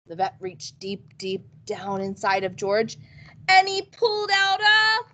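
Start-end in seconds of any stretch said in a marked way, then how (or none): 3.5-5.0 storyteller's surprised reveal; dramatic reveal. A narrator's reading. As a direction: rise high to the final word.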